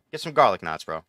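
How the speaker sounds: garlic knots with a full r in garlic; casual New York accent on garlic knots. Shown as a demonstration. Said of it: "We don't say it like that".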